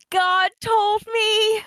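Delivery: high, slow proclamation; excited. Pretend. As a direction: shout it out like a prophet. Player jokingly claims divine guidance.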